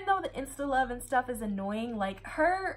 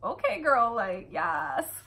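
hyped reaction; slower than usual. Real, not acted. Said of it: "I was just like".

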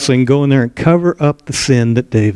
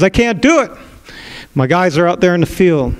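Uriah pleading; 5 semitones higher than usual. Acted. Uriah refusing, pitched up.

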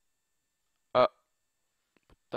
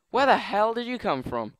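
startled shout; 8 semitones higher, 7 dB louder than usual. Real, not acted. Surprised by an enemy.

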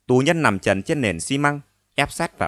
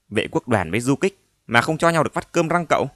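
reproachful; 4 semitones higher than usual. Acted. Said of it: "Giọng Lanh đầy vẻ trách móc".

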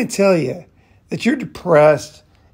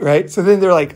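normal talking voice

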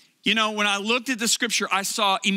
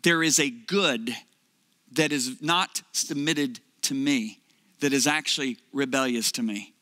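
lower, slow and grave as God speaking; 6 semitones lower than usual. Retold or imitated. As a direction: speak as a calm father correcting his son. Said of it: "He said".

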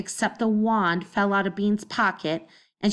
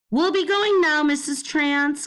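much higher and louder, cheerful call; 8 semitones higher, 3 dB louder than usual. Acted. Bean calling goodbye to the neighbour across the yard, cheery call. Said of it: "called Bean".

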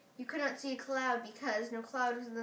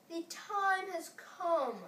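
grand walrus voice; 5 semitones higher, much slower than usual. Acted. Walrus addresses oysters.

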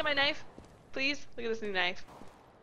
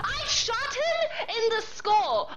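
laughing disbelief; 5 semitones higher, slower than usual. Real, not acted. Disbelief after a missed kill.

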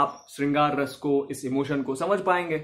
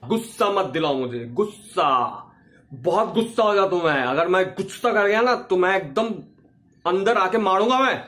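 mock angry threat. Shown as a demonstration. Teacher demos a clichéd angry threat, mock anger. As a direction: play a hammed-up threat. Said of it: "तो यह क्या हमेशा ऐसे होता है".

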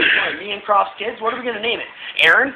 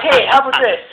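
laughing quote; 4 semitones higher, 6 dB louder than usual. Retold or imitated. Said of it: "I was like, I was like".

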